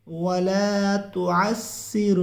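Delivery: very slow, melodic recitation. Shown as a demonstration. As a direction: chant it slowly for the class to repeat. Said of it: "پڑھیے ناظرین". (آہستہ ترتیل سے تلاوت)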